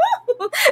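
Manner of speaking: a sudden high excited squeal; high squeal of delight. Real, not acted. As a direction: squeal like a fangirl. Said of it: "fazendo barulho assim do lado dele". (gritinho agudo de empolgação)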